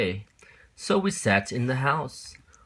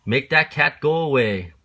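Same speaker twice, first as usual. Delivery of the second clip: alarmed fish; 6 semitones higher, 6 dB louder than usual. Acted. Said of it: "But our fish said".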